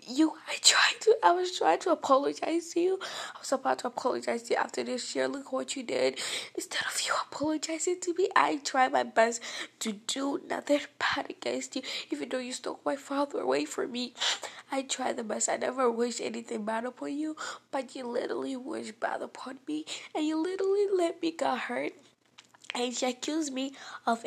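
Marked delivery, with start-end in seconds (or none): 0.0-16.6 mock sob. Voicing the other girl's tearful outburst. 17.7-21.9 mock sob. Voicing the other girl's tearful outburst.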